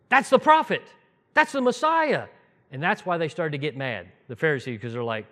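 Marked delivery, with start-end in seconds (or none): 0.1-2.3 high, loud eureka cry; excited realisation. Retold or imitated. Festival crowd recognising the Messiah, high excited cry. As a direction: burst out as it all clicks. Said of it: "And they're all like".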